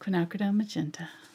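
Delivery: soft, gentle, soft-voiced delivery. Asked to say the phrase in her soft voice: soft gentle voice. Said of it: "you gotta say it in your soft voice".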